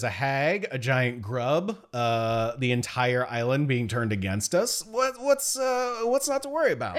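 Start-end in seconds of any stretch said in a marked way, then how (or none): 4.8-7.0 high sarcastic question; dripping with irony. Real, not acted. Sarcastic list of dangers.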